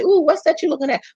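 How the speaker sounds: acting out a nosy customer asking about the phone; curious passerby. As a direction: lean in like a nosy stranger at the dealership. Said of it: "you say".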